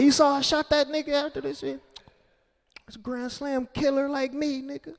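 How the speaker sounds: high, bragging homeboy at Denny's. Acted. Comic bragging to his homeboy over breakfast. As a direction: boast it like a proud street killer.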